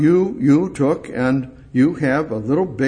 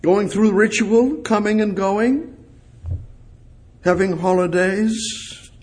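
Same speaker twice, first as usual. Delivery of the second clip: much higher and louder, pleading with God; impassioned preaching; 6 semitones higher, 6 dB louder than usual. Acted. Preacher challenges congregation and God, loud and impassioned. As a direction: cry out to heaven.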